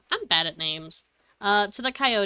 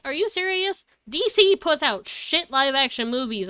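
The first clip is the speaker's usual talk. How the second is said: retold outrage. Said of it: "how bad that pissed me off".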